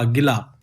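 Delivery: गिला with the ला stretched longer. Shown as a demonstration. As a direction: hold the ला in गिला. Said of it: "ला ज़्यादा खींचा जा रहा है". (गिला में ला को खींचकर)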